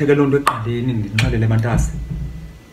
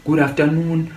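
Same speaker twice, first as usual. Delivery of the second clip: mock morning greetings, pitched up; higher, put-on greeting with a drawn-out ending; imitated morning greeters; 5 semitones higher, slower than usual. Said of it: "Abanye abantwana bavuka".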